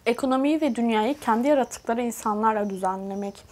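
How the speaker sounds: muffled behind hand; speaking through hand. Real, not acted. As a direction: hand pressed to lips. Seen 0: Hand covers mouth while she speaks, removed at 3.7s.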